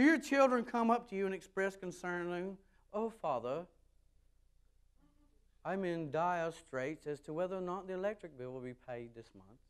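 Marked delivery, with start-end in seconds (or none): 2.9-9.6 mock-British child addressing Father; hammed-up, not-quite-British formal plea; bogus British accent. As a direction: put on a rough, fake British accent. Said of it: "I gave this bogus, somewhat British accent".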